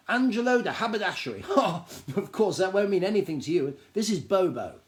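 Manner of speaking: a high, eager little gnome voice, bursting with news; high excited gnome. Acted. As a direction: gnome tells a stranger about the store, high and eager. Gnome introduces himself.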